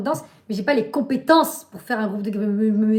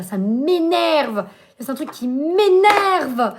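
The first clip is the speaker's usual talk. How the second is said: slow, louder, exasperated groan of words; slow, louder, exasperated complaint; drawn-out annoyance; 3 semitones higher, 5 dB louder, much slower than usual. Real, not acted. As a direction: stretch each word out, fed up. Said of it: "ça m'a grave énervé".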